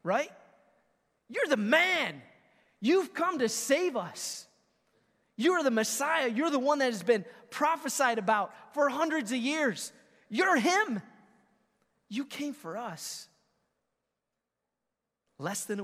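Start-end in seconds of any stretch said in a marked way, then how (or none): 1.3-13.3 loud, high hammed-up crowd praise; mock ecstatic cheering; adoring crowd. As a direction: gush over him like a fickle crowd. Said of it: "they've been wishy-washy".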